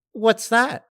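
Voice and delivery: high curious question; high curious Pinkie. Acted. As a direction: perk up with sudden interest.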